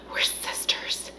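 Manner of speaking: slow, breathy near-whisper; imitated hushed reply. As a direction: say it softly and slowly. Beth's reluctant answer to mother.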